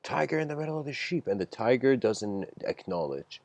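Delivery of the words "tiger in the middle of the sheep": mock shout. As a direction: call out to the lost tiger, pitched high. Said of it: "goes to the fence and shouts".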